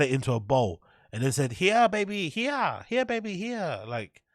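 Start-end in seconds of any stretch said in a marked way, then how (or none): 1.5-3.8 high-pitched mock Asian mum accent; mum's accent. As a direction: coo it in a put-on Asian mother accent. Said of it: "I can't do the accent".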